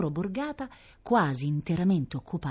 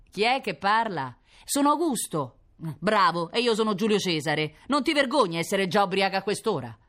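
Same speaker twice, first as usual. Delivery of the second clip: sarcastic operator; 5 semitones higher than usual. Acted. Fireman operator mocking caller.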